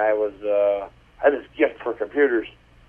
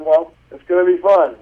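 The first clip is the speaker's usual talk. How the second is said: cheery lady; 5 semitones higher, 5 dB louder than usual. Retold or imitated. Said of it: "And she said".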